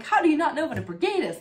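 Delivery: high, loud, fast and laughing disbelief; amazed the adult doesn't know; incredulous child. Retold or imitated. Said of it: "It's like".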